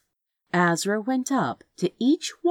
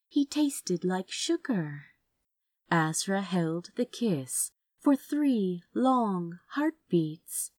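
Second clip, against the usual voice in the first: plain reading voice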